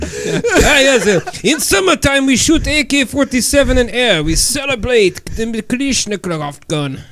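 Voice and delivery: light mock Russian accent, laughing through it; a hint of a Russian accent; Dimitri in Russian accent. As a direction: boast about summertime as a Russian guest, in a playful accent. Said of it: "Let me ask Dimitri".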